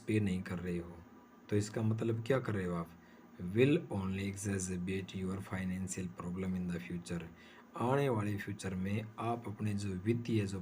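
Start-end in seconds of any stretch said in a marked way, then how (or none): 3.6-7.2 slow dictation. Shown as a demonstration. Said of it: "notes बना सको".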